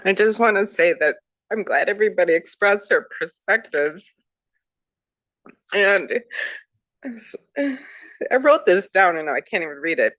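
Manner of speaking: tearful, halting with long pauses; holding back tears. Real, not acted. Trustee tells the board her view, fighting tears. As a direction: push on through real tears, pausing to recover. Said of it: "I'm gonna start to cry".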